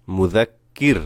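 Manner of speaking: মুযাক্কির closed short on a vowelless r; stopped ending. Shown as a demonstration. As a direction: cut it off on the final র. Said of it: "রতে সাকিন হয়ে যাবে". (মুযাক্কির, শেষে র সাকিন)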